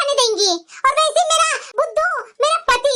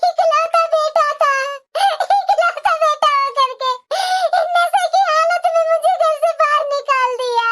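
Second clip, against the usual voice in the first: crying; 4 semitones higher than usual. Acted. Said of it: "रो क्यों रही है".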